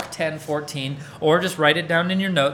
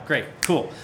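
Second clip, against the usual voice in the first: ordinary talk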